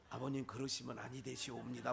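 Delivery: low, soft and deferential; imitating a mild, decorous son-in-law; courteous gentle remonstrance. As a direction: politely object like an old-time scholar. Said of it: "순한 것 같아도 점잖게 얘기해".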